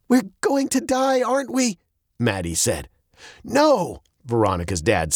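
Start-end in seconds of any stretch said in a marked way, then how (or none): 0.1-1.8 high, frightened question. A narrator's reading. Child asks if they will die, high and afraid. Girl fears death. 3.4-4.0 high, emphatic denial; emphatic dad. A narrator's reading. Dad denies they will die, high and emphatic.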